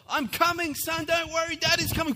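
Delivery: high, loud mock-heroic shout; calling out. Dad bolting to his crying son, hammed-up heroic calling out. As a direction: shout reassurance as you charge through the dark. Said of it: "I'm calling out".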